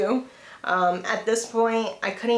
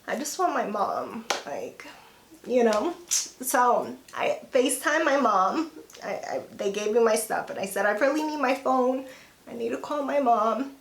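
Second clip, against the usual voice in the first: getting emotional. Real, not acted. Patient recalling wanting their mom in hospital, getting emotional. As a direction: fight back tears as you talk. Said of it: "I did not wanna get emotional".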